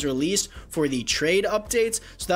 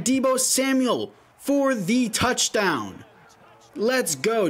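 excited; 5 semitones higher, slower than usual. Real, not acted. Touchdown call.

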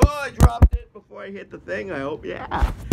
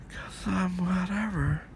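whisper; 6 dB quieter, slower than usual. Real, not acted. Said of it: "whispered aside".

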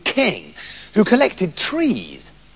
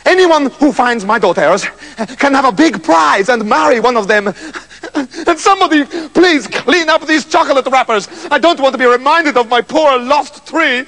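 proclaiming king; 5 semitones higher than usual. Acted. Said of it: "proclaimed the king".

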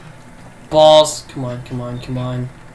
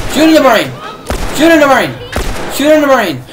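frantic yell; 4 semitones higher, much faster than usual. Real, not acted. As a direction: bark it at yourself while aiming. Urging himself mid-fight.

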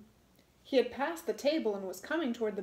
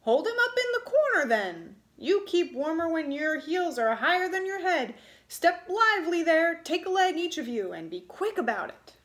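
loud, higher, fast orders; commanding little man; 6 semitones higher, 6 dB louder than usual. A narrator's reading. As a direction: hurry the boys along.

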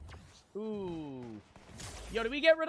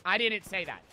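stone cold; 4 semitones lower than usual. Retold or imitated. Student staring down professor, stone cold and low. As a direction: say it flat to his face, unmoved. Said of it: "I look him stone cold in the face".

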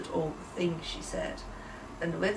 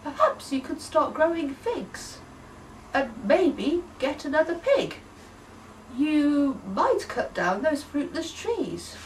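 gentle suggestion; 6 semitones higher than usual. Acted. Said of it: "they suggested their alternate plans".

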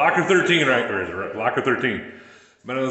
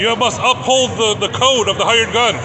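hyped announcer; 5 semitones higher than usual. Acted. Mock induction ceremony.

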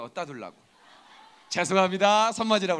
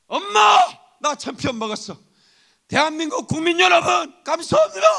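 high, loud champion's victory cry; acted ecstatic winner, shouting at the top of the voice; triumphant athlete's shout; 11 semitones higher, 13 dB louder than usual. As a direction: yell it to the whole nation, elated. Acting a gold medalist's victory cry.

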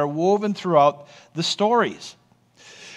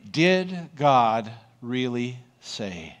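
slow, lower, insinuating serpent; 6 semitones lower, 3 dB quieter, much slower than usual. Acted. Preacher voicing the serpent tempting the woman, slow and sly. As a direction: drawl the doubt out like a sly snake. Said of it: "the first thing the serpent does".

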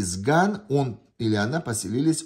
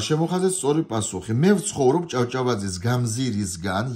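fast test-item reading; 2 semitones higher, much faster than usual. Shown as a demonstration. Teacher reading a Georgian test item fast. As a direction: rattle off the Georgian line quickly.

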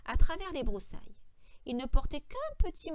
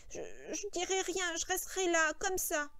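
higher, halting recitation; Lenny straining to remember; 7 semitones higher than usual. A narrator's reading. Lenny reciting what he must do for George, effortful. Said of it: "Son visage se tendait sous l'effort de la pensée".

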